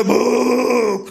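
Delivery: slow, dragged grunt repeated back; caveman echo. Retold or imitated. The tribe repeats the first word, slow caveman grunt. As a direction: drawl it like the tribe echoing. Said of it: "तो सारे बोलेंगे".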